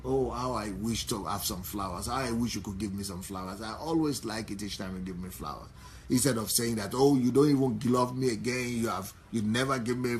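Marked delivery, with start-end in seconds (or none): 0.0-5.7 wistful desire. Shown as a demonstration. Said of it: "why don't you tell him". 6.9-10.2 accusing complaint. Shown as a demonstration. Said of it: "instead of accusing".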